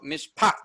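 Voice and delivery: "mishpat" as mish-PAT, weight on the end; "mishpat" with an emphasized second syllable; stress on last syllable. Shown as a demonstration. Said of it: "gonna be pronounced more".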